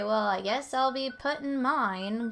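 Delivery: normal talking voice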